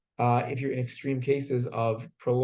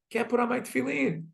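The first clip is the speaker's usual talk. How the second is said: mock crying; 9 semitones higher than usual. Zusha laments to his brother in jail, mock crying. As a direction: lament it as a storyteller mimicking tears. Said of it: "And he starts to cry".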